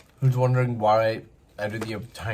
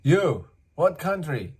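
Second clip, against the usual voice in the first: a bit higher, insistent repeat; higher insistent stranger; mimicking the man; 5 semitones higher, 6 dB louder, slower than usual. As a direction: press the question again. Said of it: "He's like".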